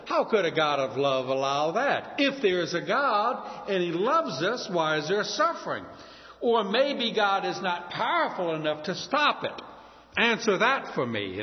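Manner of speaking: arms-folded, defiant questioning; a touch of a defiant skeptic; rebellious challenge. Retold or imitated. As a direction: demand an answer, goading. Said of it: "rebelliously and say".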